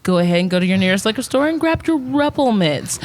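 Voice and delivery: mock TV commercial voice; ad read. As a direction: pitch it like a cheesy ad. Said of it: "quick commercial on Rumplemans".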